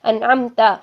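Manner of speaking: انعمتا said with a clear open a at the end instead of u; wrong vowel demo. Shown as a demonstration. Teacher showing the wrong reading: انعمتا, ending on a. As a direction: finish انعمتا on an open a sound. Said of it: "تو کی جگہ تا پڑھ دیں".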